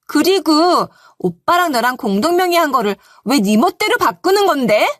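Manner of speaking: hammed-up shrill outrage at the wife; sister-in-law scolding the wife for her brother; mock yelling. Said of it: "소리를 질러댔네요".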